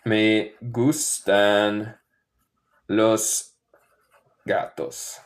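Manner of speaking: me gustan los gatos spaced out slowly; teacher modelling the Spanish slowly; slow, word by word. Shown as a demonstration. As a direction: pause between each word.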